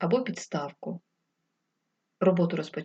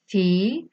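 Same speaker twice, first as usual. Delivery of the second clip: Фі-ал-ки said syllable by syllable; split into syllables; 5 dB louder than usual. Shown as a demonstration. Teacher showing children the syllables, Фі-ал-ки said in beats. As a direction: tap out Фі-ал-ки in three separate beats. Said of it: "Поділіть слово фіалки на склади".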